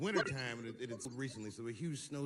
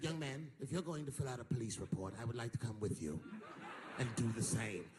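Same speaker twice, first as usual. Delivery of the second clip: put-on old white man; 5 semitones lower than usual. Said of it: "an old white guy ... said".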